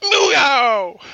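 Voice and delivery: high, loud meow; bad cat impression meow. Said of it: "that was horrible".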